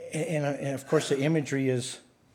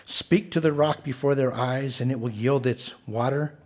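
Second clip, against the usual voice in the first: loud, measured Bible reading; preacher reading God's instructions aloud; scripture reading; 4 dB louder than usual. Acted. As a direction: proclaim the passage to the congregation. Reads scripture passage aloud.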